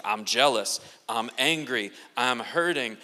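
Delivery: low-pitched voice of a feeling deity; God. Acted. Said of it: "He's like".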